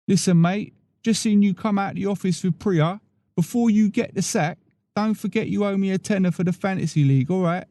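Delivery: a hint of a teasing office pal; Pete the coworker.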